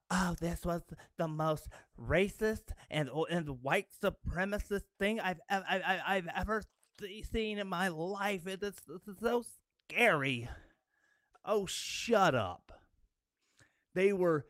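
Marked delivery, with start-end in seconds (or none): 0.1-10.5 a hammed-up, flustered voice of a scandalised critic, stammering; mock the pearl-clutching critic, gasping and sputtering; mock hysterical outrage. Mocking hysterical critic quote. 11.4-12.7 slow, drawn-out scornful brush-off; fed-up, slow put-down; dismissive scorn. Real, not acted. Dismissive retort to mocked critic.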